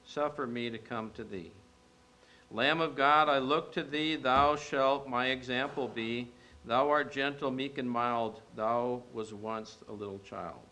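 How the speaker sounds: slow, gentle hymn recitation, not sung; recited hymn. Acted. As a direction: speak the old hymn tenderly and slowly. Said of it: "this is how it goes".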